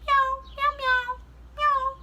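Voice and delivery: high, loud meowing voice; Penny calling to the cat like a cat; talking like a cat. Acted. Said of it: "She began talking like a cat".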